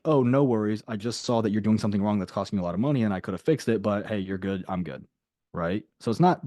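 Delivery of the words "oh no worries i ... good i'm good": genuine. Shown as a demonstration. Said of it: "the idea that you wanna imply is like".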